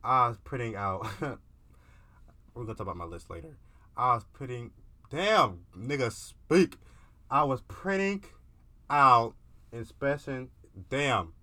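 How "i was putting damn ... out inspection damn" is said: fighting back laughter, louder and higher; stumbling over the word through giggles; cracking up mid sentence; laughing. Real, not acted. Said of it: "I'm trying my best to get this fucking word out".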